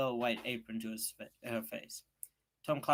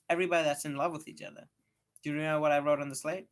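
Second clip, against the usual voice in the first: fast, louder schoolboy pushing on; rushing past her doubt; hurried eager boy; 4 semitones higher, 5 dB louder, faster than usual. Acted. Tom hurries his explanation.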